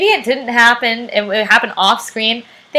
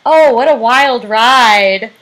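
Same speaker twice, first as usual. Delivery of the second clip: quoting Andy; 3 semitones lower, much slower than usual. Retold or imitated. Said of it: "Andy says something like".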